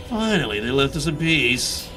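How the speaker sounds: Sliskian shadow voice. Acted. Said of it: "I kinda wanna do a Sliskian voice".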